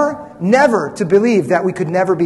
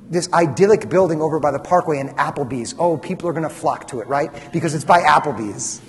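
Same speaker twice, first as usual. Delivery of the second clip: dry, understated sarcasm; sarcastic; 3 semitones lower than usual. Real, not acted. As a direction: feign confidence in the new building, tongue in cheek. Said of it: "I'm, I'm, I'm being sarcastic".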